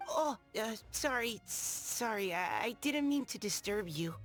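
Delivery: high, timid, stammering apology; flustered apology. Acted. Apologising to a stranger for disturbing him, flustered. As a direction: stumble nervously through saying sorry.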